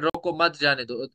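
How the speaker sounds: रोको मत run together, then जाने दो; pause after मत. Shown as a demonstration. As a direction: join मत onto रोको, break, then say जाने दो. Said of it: "इधर किया हमने वक्फ".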